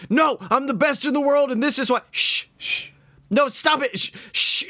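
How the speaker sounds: high, fast, hammed-up wrestler bluster; a wrestling heel trying to talk over the shushing; a heel in the ring, hushed down mid-rant; mock heel protest. Heel shouting while being shushed.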